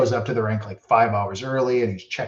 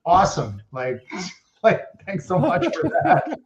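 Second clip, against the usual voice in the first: mock gushing thanks; 6 semitones higher than usual. Mock thanking Jagr, laughing.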